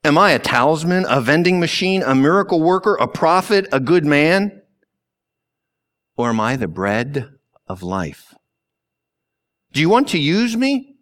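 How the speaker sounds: a lightly voiced Jesus, challenging; Jesus questioning her. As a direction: press her with rising, insistent questions. Jesus voiced asking the woman.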